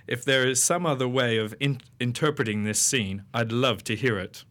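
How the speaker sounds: lightly pompous, self-important reading voice; pompous Media Watch voice. Acted. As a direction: read it like a stuffy TV watchdog host, mildly pompous. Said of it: "get a pompous voice like they do in Media Watch".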